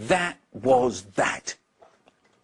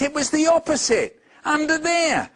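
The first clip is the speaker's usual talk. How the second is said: much higher, laughing urgency; excited child; 12 semitones higher, 3 dB louder than usual. Acted. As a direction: point under the desk, half laughing. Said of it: "cried Nate".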